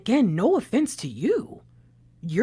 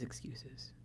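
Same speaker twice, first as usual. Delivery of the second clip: fading scoff; 20 dB quieter than usual. Retold or imitated. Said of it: "just thinking".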